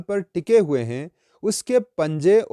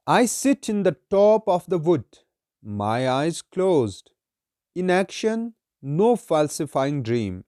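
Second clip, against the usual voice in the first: slow, measured verse reading; solemn, deliberate poetry reading; poem recitation; much slower than usual. Acted. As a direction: recite it slowly, drawing out each phrase.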